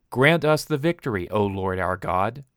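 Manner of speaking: stern messenger echoing the preacher's words; stranger, gravely citing the prayer; stranger quoting the prayer. Acted. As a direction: quote the plea back pointedly, not as a plea. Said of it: "You heard these words".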